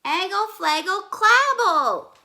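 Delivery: put-on very high, loud toddler gibberish; baby babble. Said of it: "said Trixie again".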